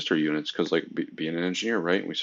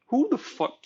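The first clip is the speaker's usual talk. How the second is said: exasperated; slower than usual. Retold or imitated. Exasperated engineer, retold.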